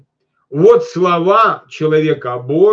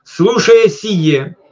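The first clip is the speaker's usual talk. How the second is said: slow reading; 3 semitones higher, 3 dB louder, much slower than usual. Shown as a demonstration. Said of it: "preacher slows scripture".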